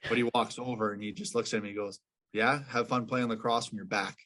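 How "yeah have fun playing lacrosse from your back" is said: lightly imitating a thick Boston accent; deadpan Boston coach brush-off, light touch. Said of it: "He's got a real thick Boston accent".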